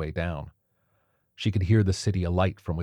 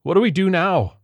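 higher, louder panicked shout; shouted question; 12 semitones higher, 8 dB louder than usual. A narrator's reading. Cellist shouting in panic during the attack. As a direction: yell it in panic. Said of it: "the cellist shouted".

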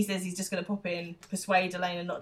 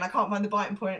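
panicky fast gabble; faster than usual. Retold or imitated. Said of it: "freaking out".

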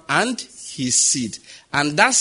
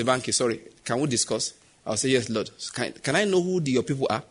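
gentle voice of God; 3 semitones lower, 4 dB quieter than usual. Retold or imitated.

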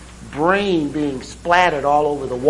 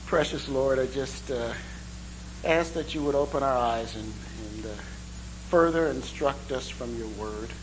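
soft, lower prayer voice; 4 semitones lower, 10 dB quieter than usual. Acted. Pastor opening the session in prayer, soft prayer voice. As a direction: pray gently on behalf of the room.

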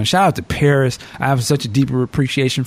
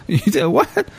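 higher, amused disbelief; shocked Mike; 9 semitones higher, slower than usual. Retold or imitated. Michael hearing he was passed off as a famous singer, disbelieving. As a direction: toss it back stunned and amused.

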